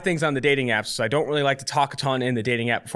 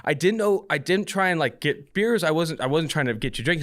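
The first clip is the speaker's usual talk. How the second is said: apologizing; 3 semitones higher than usual. Retold or imitated. Man excusing the beers to his date, retold apologetic manner. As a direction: imitate yourself excusing it apologetically. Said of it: "I immediately start apologizing".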